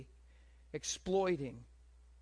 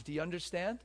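ordinary talk, nothing marked

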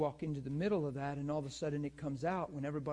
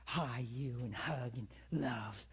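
mildly mocking mad woman; 3 semitones lower, slower than usual. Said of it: "she was just way mad".

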